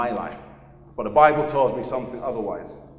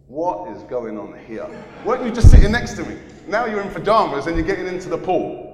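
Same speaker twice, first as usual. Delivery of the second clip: surprised friend; 3 semitones higher, 8 dB louder than usual. Retold or imitated. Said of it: "he was like".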